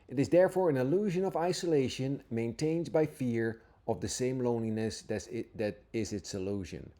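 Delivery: scripture reading. Acted. Teacher reading Jesus' words to listeners, earnest and reverent. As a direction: read each line as if it is holy.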